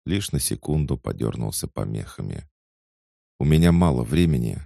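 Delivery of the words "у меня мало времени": hurried, louder, barely holding it together; fast anxious warning over forced calm; failing to stay calm. Acted. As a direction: try to sound calm and fail. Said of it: "Он пытался говорить спокойно, но ничего не получалось".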